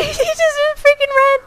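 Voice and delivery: high, slow words through panicked laughter; real nervous laughter; laughing. Real, not acted. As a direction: laugh off the fright. Laughing after being chased.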